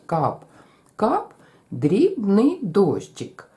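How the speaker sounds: slow Кап, кап, then quick дрібний дощик; Кап, кап long, дрібний дощик quick; rhythm repeat. Shown as a demonstration. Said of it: "Давайте ще раз".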